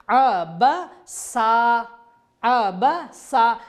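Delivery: slow अबसा ending on long a; pausal form. Shown as a demonstration. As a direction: stretch the final a of अबसा. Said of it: "अन की आवाज़ आ में बदल जाएगी". (रुकाव पर अबसा)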